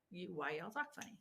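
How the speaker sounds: put-on quick Southern accent. Teacher quoting people in the South, in a Southern accent. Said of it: "people in the South would be like".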